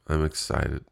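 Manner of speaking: real deadpan lack of enthusiasm; unexcited. Real, not acted. Podcaster admitting mixed feelings about his plan, unexcited. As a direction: claim excitement with no lift in the voice. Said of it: "Could I have sounded less excited saying".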